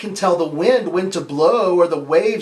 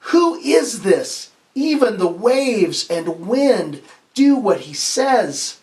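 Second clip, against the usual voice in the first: terrified awe; slower than usual. Acted. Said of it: "they were terrified".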